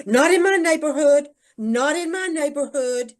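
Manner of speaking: mildly hammed-up objection from worried residents; mock outrage. Residents objecting to duplexes being built nearby, mock outrage. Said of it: "People go crazy".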